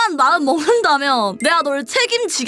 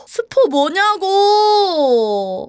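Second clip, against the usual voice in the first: slow exaggerated complaint; drawn-out whine; 3 semitones higher, much slower than usual. Real, not acted. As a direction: stretch every syllable in protest. Annoyed at being spoiled. (길게 늘이며 투덜대는)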